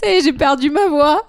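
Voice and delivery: cracking voice from laughing. Real, not acted. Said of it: "On dirait un adolescent qui mue".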